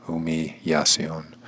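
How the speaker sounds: "Humillación" drawn out, Y in place of L's. Shown as a demonstration. Teacher breaking down the Spanish word, L's like a Y. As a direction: slowly break "Humillación" before its Y sound. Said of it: "the L's sound more like a Y".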